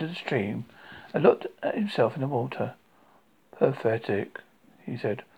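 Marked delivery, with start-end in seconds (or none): 3.5-4.4 gloomy donkey. Acted. Gloomy donkey muttering to himself.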